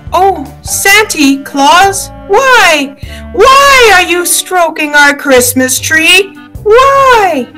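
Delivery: put-on very high-pitched, plaintive child; little girl's voice. A narrator's reading. Little Cindy to Santa Claus at the Christmas tree, plaintive child voice. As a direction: ask it in a tiny child's high voice, pleading. Tiny girl questions fake Santa.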